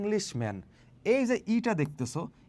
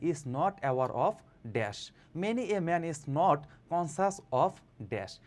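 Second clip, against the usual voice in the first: slow model reading; much slower than usual. Shown as a demonstration. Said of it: "যে many".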